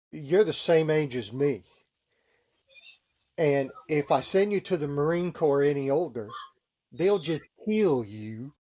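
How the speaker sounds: a light Texas drawl, teasing; imitating a Texas drawl. Texan detailer ribbing the chaplain, a hint of Texas drawl. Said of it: "he's got this Texas drawl".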